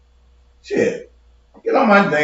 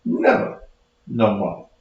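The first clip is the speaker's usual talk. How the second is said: whisper; 10 semitones lower, 7 dB quieter than usual. Real, not acted. Repeats threat, second time whispered.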